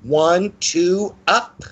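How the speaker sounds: put-on high singsong child voice; little girl counting in high singsong; sing-songy little girl. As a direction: call it in a lilting, playful chant. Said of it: "in a little sing-songy voice".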